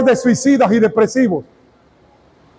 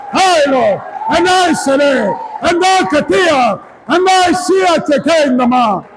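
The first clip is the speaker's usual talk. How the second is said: speaking in tongues; 3 semitones higher than usual. Acted.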